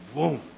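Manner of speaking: short "vroom" sound effect; vocal whoosh as it hits; imitated whoosh. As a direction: mimic a sudden rush of power. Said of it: "He's had his hand on me".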